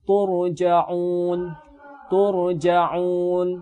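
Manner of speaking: turja'un with the silent ra heavy and full-mouthed; thick ra. Shown as a demonstration. Teacher demonstrating turja'un to the class: heavy ra. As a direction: recite turja'un twice, thickening the ra. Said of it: "wajib dibaca dengan tebal".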